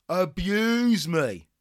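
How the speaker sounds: slow, taunting dare; goading. Acted. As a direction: draw the words out as a dare. Trainer goading pupil.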